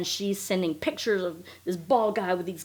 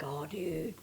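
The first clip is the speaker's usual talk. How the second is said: mock dismay; 3 semitones lower, 10 dB quieter than usual. Reacting to photoshopped photo.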